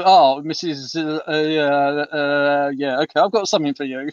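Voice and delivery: hesitant, stammering postman, lightly imitated; terrified postman. Postman facing the lady he dreads, mildly mimicked nervous stammer. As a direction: stumble through the uhs, then rush it out. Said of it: "She had a total terror".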